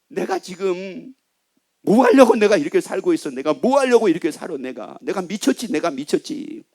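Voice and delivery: mildly hammed-up exasperated muttering; acted self-pity. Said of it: "마귀하고 연합한 사람 뭐라고 그래요".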